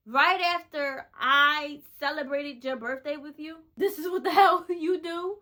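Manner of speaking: indignant, rising to a half-laughing jab; hurt and angry. Retold or imitated. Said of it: "I was really hurt".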